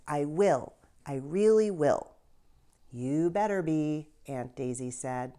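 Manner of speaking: lively read-aloud for kids, with voiced characters; story narration. A narrator's reading. Teacher reads a children's novel aloud.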